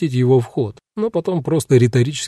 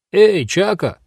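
higher call with a falling end; 8 semitones higher, slower than usual. A narrator's reading. Guard calls to his partner on the stairs, raised call. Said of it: "повысил он голос".

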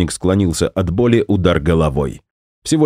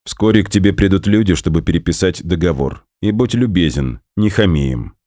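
icy voice. Acted. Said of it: "произнёс ледяным голосом".

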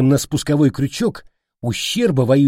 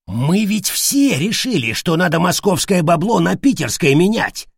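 high-pitched desperate protest; yelling protest; 6 semitones higher than usual. A narrator's reading. Leader defends himself before his angry gang, crying out. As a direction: wail the excuse in self-defence. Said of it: "завопил Уйбуй".

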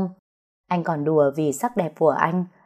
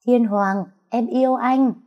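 called out high and loud, as if across the beach; loud cry of love, voice rising high; shouting out loud; 6 semitones higher than usual. A narrator's reading. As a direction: shout it to the sea to hide the tears. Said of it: "hét thật to".

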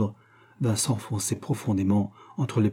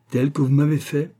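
higher, tense furious retort; fureur contenue; 5 semitones higher, 4 dB louder than usual. A narrator's reading. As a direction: answer with restrained fury. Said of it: "avec fureur". (fureur contenue, plus haut)

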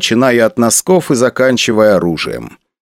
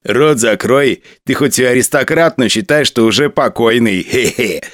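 shouting at trespasser; menacing jeer with a chuckle; nasty sneering guard. Acted. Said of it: "Мерзко усмехнулся солдат".

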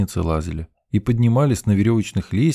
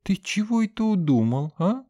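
suspiciously sweet; 13 semitones higher than usual. A narrator's reading. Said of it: "подозрительно ласково поинтересовалась подруга".

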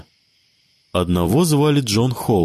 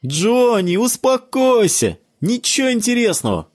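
put-on child's voice; 13 semitones higher than usual. A narrator's reading. Bruce tells Johnny to calm down, high child voice. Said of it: "раздался детский голосок Брюса".

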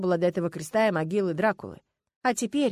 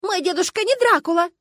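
высоко и громко, с возмущением; выкрикни, защищая деда; возмущённый крик; 12 semitones higher, 9 dB louder than usual. Acted. Ссора внучки с бабулей. (возмущённый крик)

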